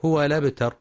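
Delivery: هو الأبتر run together, swallowing the hamza; dropped hamza. Shown as a demonstration. Teacher imitating the mistaken reading, hamza dropped. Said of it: "فبعضهم يقرأ".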